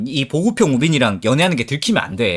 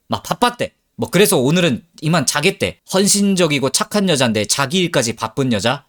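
usual speaking voice

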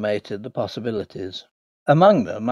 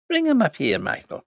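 calling out; 9 semitones higher than usual. Acted. Landlord calling to his groom.

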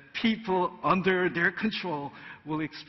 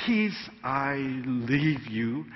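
slow solemn; 2 semitones lower, slower than usual. Acted. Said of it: "Here, Jesus says".

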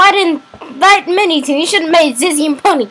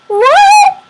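sudden high shocked yelp; 1 shocked what; 6 dB louder than usual. Real, not acted. Gamer shocked by a cutscene twist, high yelp. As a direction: blurt it out in disbelief.

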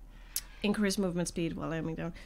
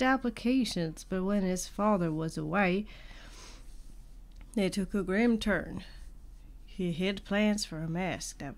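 put-on southern accent. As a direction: read it like a Western, light southern accent. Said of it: "when you think of a Western".

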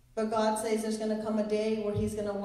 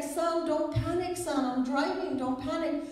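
slightly urgent dad, pitched up; lightly voiced father; 6 semitones higher than usual. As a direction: tell a panicking child to settle while you drive. Father calming a panicking son.

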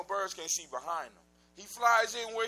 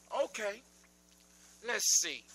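lightly voiced old witch scheming; a hint of a sly witch. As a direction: muse it out like a crafty old hag. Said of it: "so the Neb says".

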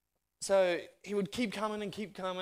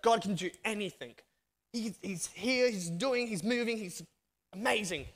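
fired up; 4 semitones higher than usual. Retold or imitated. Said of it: "he was just on fire".

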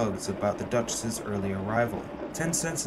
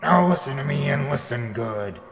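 louder, commanding bark; booming order; 5 dB louder than usual. Acted. Rival captain ordering his tugs about, booming. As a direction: lay down the law to the crew. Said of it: "the captain boomed".

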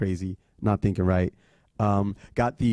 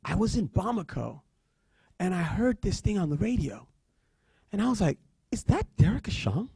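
higher, lightly voiced professor recounting a curiosity; professor's voice; 6 semitones higher, 3 dB quieter than usual. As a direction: imitate a professor chatting in a higher voice. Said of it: "She says to me".

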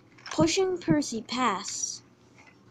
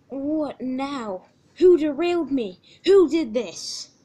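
indignant, drawn-out questioning; annoyed demand; 3 semitones higher, 6 dB louder, slower than usual. Acted. Derailed engine demands the culprit, annoyed. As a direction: demand to know who is to blame. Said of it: "was very annoyed".

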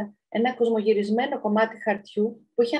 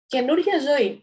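higher-pitched, knowing pronouncement; know-it-all; 5 semitones higher, 4 dB louder, slower than usual. Acted. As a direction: announce it as the expert. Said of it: "απάντησε με ύφος παντογνώστη η ντομάτα". (ύφος παντογνώστη)

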